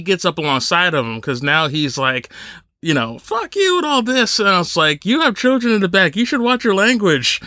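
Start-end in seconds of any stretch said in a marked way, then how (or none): 3.2-4.4 retold cursing. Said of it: "he keeps cursing at him still". 5.1-7.4 scolding in a put-on Canadian accent, higher; bad Canadian accent. Canadian driver shaming the man cursing him, mock Canadian accent. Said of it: "I'm gonna do a really bad Canadian accent".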